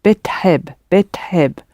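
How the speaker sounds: "Bit heb" run together quickly, the i almost dropped; "bit heb" clipped and quick; fast bit heb. Shown as a demonstration. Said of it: "the I of teheb is almost dropping out when you say it fast".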